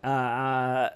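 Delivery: loud, slow shouting into the elevator speaker; shouting up to a faint elevator intercom, slow and loud; yelling into faint speaker. Retold or imitated. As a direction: call out loudly so the faint intercom hears you. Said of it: "I'm like".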